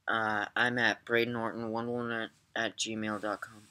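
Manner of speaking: slurred by a numb mouth; words mushy from numb tongue. Real, not acted. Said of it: "My mouth is so numb".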